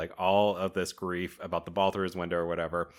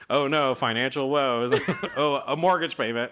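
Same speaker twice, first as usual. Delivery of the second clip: higher, hammed-up fake worry over a trifle; mock dramatic alarm; 6 semitones higher, 4 dB louder than usual. Mocking the movie's tiny financial drama with fake alarm. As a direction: gasp it out like it's a tragedy.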